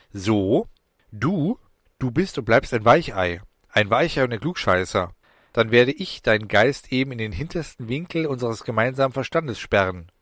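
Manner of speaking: mildly irritated scoff; a touch of sulky defiance; annoyed, defiant. Acted. Annoyed demon scoffing at Alan, mildly defiant. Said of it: "Genervt antwortete die Stimme schließlich trotzig".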